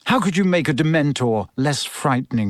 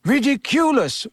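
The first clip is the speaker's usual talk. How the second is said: class repeating together; 11 semitones higher than usual. A narrator's reading. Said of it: "said the class together".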